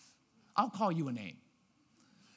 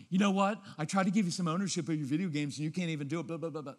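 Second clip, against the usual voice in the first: 1 exasperated lecture; faster than usual. Retold or imitated. Parent lecturing kid, mocked.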